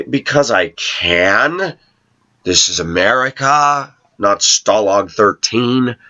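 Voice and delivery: slow, dry sarcastic comeback. Retold or imitated. Coworker quizzing his wig gets a slow sarcastic reply. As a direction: drawl it out to mock them. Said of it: "the sarcastic part of me says".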